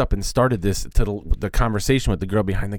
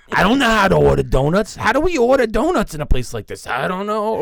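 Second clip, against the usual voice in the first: mock clueless guy; 9 semitones higher than usual. Mocking clueless donut buyers.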